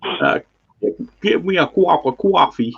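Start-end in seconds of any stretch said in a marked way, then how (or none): 1.2-2.7 a light New England American accent. Shown as a demonstration. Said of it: "I wanna hear your American accent".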